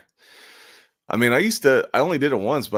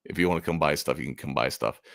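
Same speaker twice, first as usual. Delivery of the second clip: burnt-out indifference; 4 semitones lower, 3 dB quieter than usual. Retold or imitated. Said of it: "I was getting burnt out".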